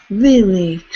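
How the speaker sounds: loud, surprised Really; playful disbelief at the comment. Real, not acted. Surprised reaction to stuck viewer.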